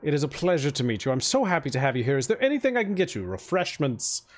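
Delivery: lightly voiced eager host, rattling on fast; gushing mayor. Mayor offers refreshments to his guest, lightly gushing and quick. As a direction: pile on the hospitality, quick and eager.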